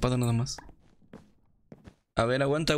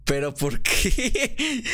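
outraged whine; 7 semitones higher, 3 dB louder, much slower than usual. Real, not acted. Just got killed, complaining.

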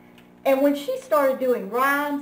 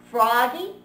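mom calls out to Froggy, raised voice; calling out; 5 dB louder than usual. Acted. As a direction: call him from the next room.

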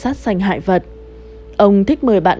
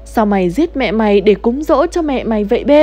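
panicked cry; 3 semitones higher than usual. Acted. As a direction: cry out in horror at the dream. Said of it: "hoảng hốt la lên".

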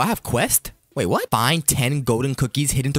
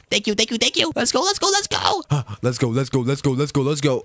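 gleeful mock-panic chanting; frantic getaway; 3 semitones higher than usual. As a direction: hurry away with the loot, squealing. Grabs cookies and flees.

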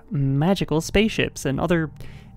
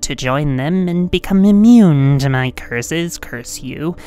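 evil villain voice; 4 dB louder than usual. Pretend. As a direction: threaten like a cartoon villain. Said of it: "the Foxy evil voice".

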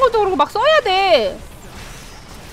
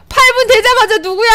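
amused outcry; 3 semitones higher than usual. Real, not acted. First take, amid laughter.

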